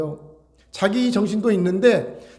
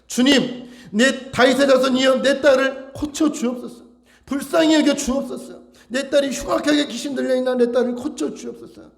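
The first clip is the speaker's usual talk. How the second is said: raised, urgent plea for mercy; earnest pleading; 6 semitones higher than usual. Acted. Mother begging Jesus to heal her possessed daughter, earnest pleading. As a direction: cry out to the Lord, higher and insistent. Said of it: "간절하게".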